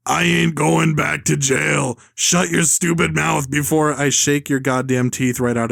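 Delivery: mock all-caps rant, slow at first; lightly voiced ranting villain. Villain threatens teen he is shaking, mock rant. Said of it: "it's all caps".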